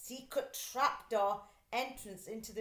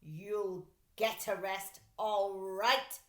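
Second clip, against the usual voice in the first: mild mock shout; 4 dB louder, slower than usual. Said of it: "shouted Mister Dart".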